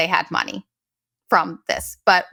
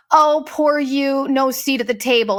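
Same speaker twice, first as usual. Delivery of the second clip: mock pity; 3 semitones higher than usual. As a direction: sneer at their self-pity. Mocking their Facebook posts.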